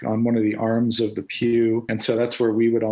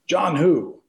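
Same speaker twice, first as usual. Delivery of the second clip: mock-gruff grandfather, pitched up; John Coolidge; 5 semitones higher than usual. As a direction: lightly imitate a gruff challenge, falling at the end. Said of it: "very gruff, low voice, John Coolidge".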